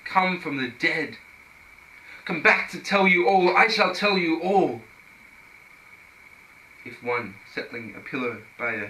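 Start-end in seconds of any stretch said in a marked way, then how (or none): 0.1-4.8 raised, louder recital of a grand announcement; Lazarus proclaiming. Acted. Risen man back from the dead to tell all, proclaiming. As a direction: proclaim it higher and louder, slowing on the last words. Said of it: "to say, "I am Lazarus".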